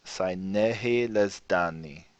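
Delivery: slow, soft, careful Lojban reading. Shown as a demonstration. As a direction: read the poem slowly, word by word. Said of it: "If I speak a little slowly".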